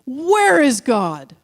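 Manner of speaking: slow, booming mock interrogation; mock stern pastor. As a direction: play a pastor bearing down on a boy. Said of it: "the pastor says again".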